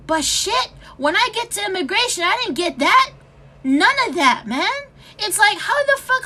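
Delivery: angry rant. Real, not acted.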